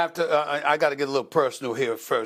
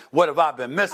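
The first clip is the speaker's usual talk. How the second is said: mock wonder; 3 semitones higher, faster than usual. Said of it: "I was like".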